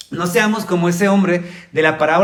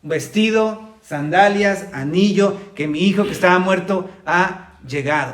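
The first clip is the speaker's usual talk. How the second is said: father's joyful orders; slower than usual. Retold or imitated. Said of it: "dice inmediatamente".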